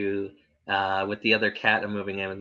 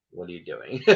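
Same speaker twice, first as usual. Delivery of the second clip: puzzled cat voice; 4 semitones lower, 14 dB quieter than usual. Retold or imitated. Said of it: "look at you and be like".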